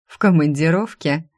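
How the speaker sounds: mildly snide question. Acted. Blonde rival questions the secretary about the boss, snide. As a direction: needle her with a sly question. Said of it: "ехидно спросила она".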